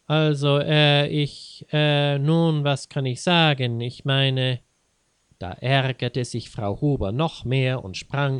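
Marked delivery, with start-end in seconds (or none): 0.1-4.6 louder, halting um and uh; mild flustered husband stammering. Acted. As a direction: stumble over words, caught off guard. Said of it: "fing Herr Huber zu stottern an".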